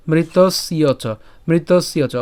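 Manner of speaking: মৃতস্য চ as mritosyo cho; Sanskrit pronunciation. Shown as a demonstration. Teacher modelling মৃতস্য চ for students. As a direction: sound out মৃতস্য চ clearly for learners. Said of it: "এরপর উচ্চারণ কি?".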